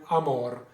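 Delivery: amor cut short after the r; truncated ending. Shown as a demonstration. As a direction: drop the last E and land on MOR in amor. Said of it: "cut the last E off".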